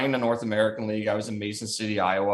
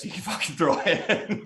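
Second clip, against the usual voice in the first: laughing through words; 7 semitones higher than usual. Real, not acted. Telling a funny story, laughing.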